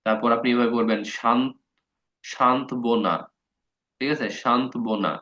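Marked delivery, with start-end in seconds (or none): 2.2-3.2 শান্ত বোনা read letter by letter as spelt; spelling-pronunciation. Shown as a demonstration. Teacher reads it as written to fix spelling. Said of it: "মানে উচ্চারণ তো শান্ত না". 4.4-5.1 শান্ত বোনা read letter by letter as spelt; spelling-pronunciation. Shown as a demonstration. Teacher reads it as written to fix spelling. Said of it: "মানে উচ্চারণ তো শান্ত না".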